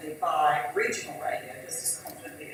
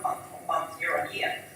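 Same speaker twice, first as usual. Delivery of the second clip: hoarse; 4 semitones lower, 5 dB quieter than usual. Real, not acted. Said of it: "I'm losing my voice".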